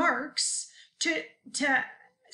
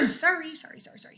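throat clearing apologies; 4 semitones higher, much faster than usual. Real, not acted. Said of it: "I can't stop clearing my throats".

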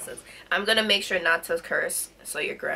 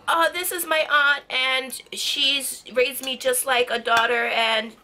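imitating friend; 4 semitones higher than usual. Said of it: "and then you're like".

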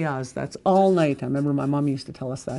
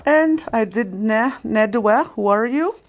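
mock command; 6 semitones higher, 5 dB louder, slower than usual. Acting out a command scene.

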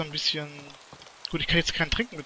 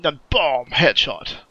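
excited shout; 3 semitones lower, 6 dB louder, much slower than usual. Pretend. Acting out a game kill.

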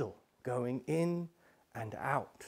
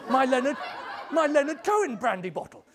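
high-pitched, aggrieved clinging to a treasure; mock-wounded king, pitched up; possessive protest; 9 semitones higher, 4 dB louder, faster than usual. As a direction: protest as if losing your prized bottle. King reluctant to share treasured bottle.

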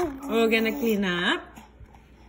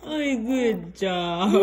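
laughing praise. Real, not acted. Mom laughing while praising baby.

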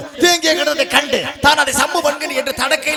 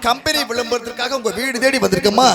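singsong street hawker. Acted. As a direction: cry your wares to the housewives. Aluminium vessel hawker calls.

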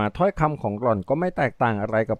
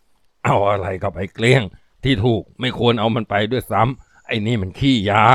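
scornful henchman; 2 semitones lower than usual. Acted. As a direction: spit out his contempt for the junkie.

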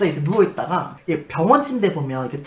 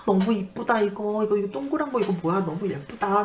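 put-on childlike fascination; 4 semitones higher than usual. Patient fondles mothballs in the toilet, childlike wonder. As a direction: marvel like a little child.

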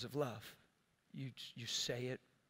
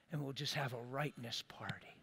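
whispered aside; 5 dB quieter than usual. Real, not acted. Mocking aside.

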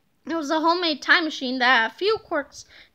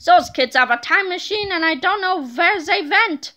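villain voice; 4 dB louder than usual. Acted. Villain angry after escape.

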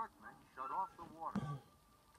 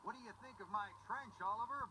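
proud; 6 semitones higher than usual. Acted. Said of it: "Byron asked proudly".

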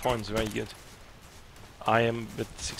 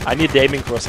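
frustrated shout; 9 dB louder, faster than usual. Real, not acted. Frustrated gamer wants crosshair.

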